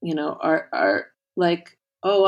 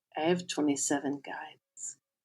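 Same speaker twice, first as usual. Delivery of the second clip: put-on very quiet, bashful, sheepish little-boy voice; 10 dB quieter than usual. Retelling what he told the speaker about listening to her podcast; imitating sheepish little boy voice. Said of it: "in kind of this cute little boy, sheepish, quiet voice".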